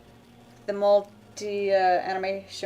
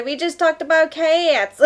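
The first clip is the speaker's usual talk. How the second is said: laughing protest; 8 semitones higher, 4 dB louder than usual. Real, not acted.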